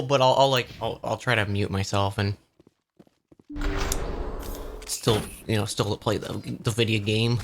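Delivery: talking with food in mouth; words round a bite of food; mouth full. Real, not acted. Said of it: "I'm gonna nibble".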